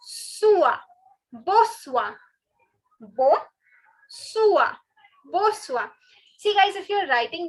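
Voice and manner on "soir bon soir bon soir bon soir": bo sua with open bo, sua drawn out; unstressed N. Shown as a demonstration. Teacher drilling good evening, careful separate syllables. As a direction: say "bo sua" without any n. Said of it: "we do not stress on this N".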